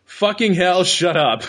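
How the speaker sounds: laughing as the words come out; amused, breaking into laughter; amused read-out. Real, not acted. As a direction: read the angry message through a laugh. Reading angry message, amused.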